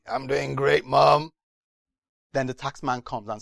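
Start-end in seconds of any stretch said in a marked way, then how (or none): 0.1-1.3 put-on teenager. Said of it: "the other one is like a teenager and he says".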